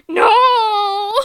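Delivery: high, loud mock yell of refusal; high mock cry of no; mock shout. Yuri refusing in retold scene.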